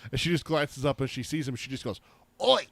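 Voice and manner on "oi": put-on cute ten-year-old voice. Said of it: "in her cute little ten-year-old's voice".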